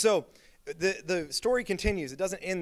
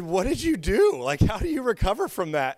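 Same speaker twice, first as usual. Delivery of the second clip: retold disbelief; 3 semitones higher, 3 dB louder than usual. Pastor asking the friend how he survived it, stunned. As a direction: ask it like you can't believe it.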